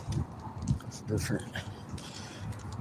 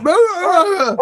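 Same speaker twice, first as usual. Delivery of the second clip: high, loud squeaky dog cry; voicing the dog; 5 dB louder than usual. Voicing the dog recognizing her, high squeal. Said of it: "She's like".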